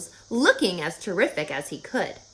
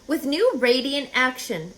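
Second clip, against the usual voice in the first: slowly; 4 semitones higher than usual. Acted. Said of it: "repeated Charlotte slowly".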